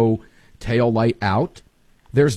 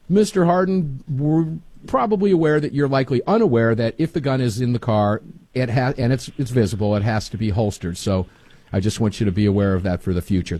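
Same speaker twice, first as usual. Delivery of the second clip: realistic cop. Pretend. Host imagines the cop calmly advising Harden, a touch official. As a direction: politely explain the holster rule like a patient officer. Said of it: "a cop could easily have said that to him".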